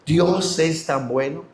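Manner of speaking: put-on slow, subdued retelling of a child's words; tearful child, imitated. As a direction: say it slowly and low-key, imitating a moved child. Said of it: "ese niño que estaba llorando".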